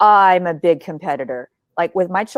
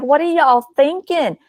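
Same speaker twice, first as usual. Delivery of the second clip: incredulous; 8 semitones higher, slower than usual. Retold or imitated. Exasperated at entrepreneurs skipping websites.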